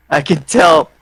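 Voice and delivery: laughing. Real, not acted. Laughing while teasing Fireball.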